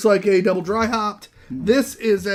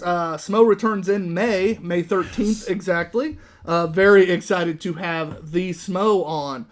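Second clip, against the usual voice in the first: playful announcer drawl; slower than usual. Real, not acted. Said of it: "I was having fun with that".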